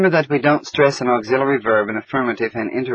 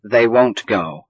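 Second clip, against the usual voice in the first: won't said slower and leaned on; stress on won't; slower than usual. Shown as a demonstration. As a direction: hit the word won't. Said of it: "but we stress it in a negative sentence".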